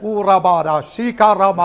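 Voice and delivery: rapid tongues utterance; speaking in tongues. Real, not acted. Preacher praying in tongues before the church. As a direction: let the tongues pour out.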